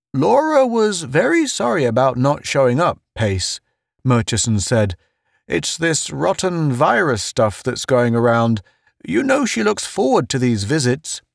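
high-pitched apologetic character voice; solemn Murchison. Acted. Murchison explaining Laura's absence to Pace, high earnest voice.

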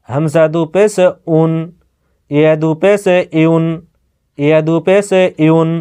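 measured, evenly paced recitation of each letter with দু জেরে; spelling drill. Shown as a demonstration. Teacher spelling Arabic letters for home learners, steady recitation drill. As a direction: chant the spelling like a teacher, one letter at a time. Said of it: "আগে বানান করে পড়ছি".

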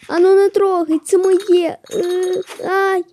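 playful angry shout; mock angry. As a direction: tell it off like a kid defending his stuff. Fighting in game.

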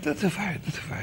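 soft, hushed reassurance; calm someone down quietly; gentle soothing aside, well under full voice; reassuring. Retold or imitated. Moses calms the frightened Pharaoh.

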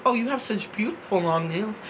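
soft kind praise. Retold or imitated. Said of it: "She says".

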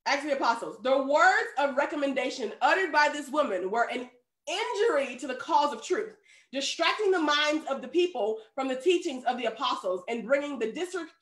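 measured, formal book reading; reading aloud. A narrator's reading. Preacher reads Acts of the Apostles aloud, measured and formal. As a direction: read the passage out evenly and clearly.

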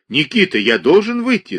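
a trembling, pleading cry. A narrator's reading. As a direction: voice rising, shaking with alarm. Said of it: "сказал он дрогнувшим голосом".

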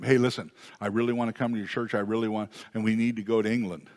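quick, eager imitation of a friend; gushing empty promiser. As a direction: rattle off big promises like an over-keen friend. Acted friend making empty promises.

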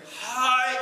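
echo. Acted. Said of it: "对边来有声".

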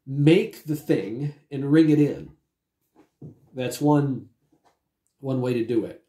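talking around a lozenge; throat lozenge in mouth. Real, not acted. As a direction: mouth full with a cough drop. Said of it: "I've got a throat lozenge in my mouth".

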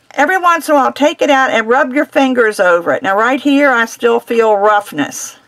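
muffled behind a face mask; talking through a dust mask. Real, not acted. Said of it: "if I sound funny, it's because I have a mask on".

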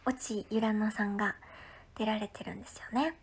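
quick whispered aside; a hurried hushed aside. Real, not acted. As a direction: drop to a fast whisper. Quiet aside about guest.

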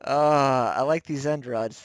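ordinary talk, nothing marked

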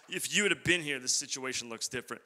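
soft, falling lament; fading lament. Retold or imitated. Sisters lament trailing off softly. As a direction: let the grief sink to a hush. Same line repeated, fading down.

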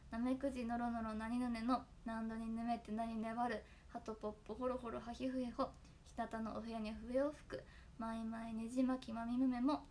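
reciting the kana poem, steady and deliberate; elocution recital. Shown as a demonstration. Host reciting the tongue-twister poem to fans, deliberate recital. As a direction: recite it like a voice-training drill. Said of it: "必ずこれを言ってから劇場に来てください".

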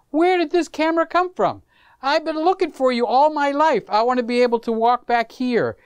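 delighted exclamation. Retold or imitated. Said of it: "It's like".

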